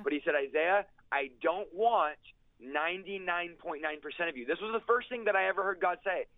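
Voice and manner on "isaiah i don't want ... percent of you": slow, deliberate divine pronouncement, lightly voiced; God. God calls Isaiah by name at the altar, lightly imitated slow pronouncement. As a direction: retell it with measured weight, pausing mid-sentence. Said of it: "The audible voice of God says".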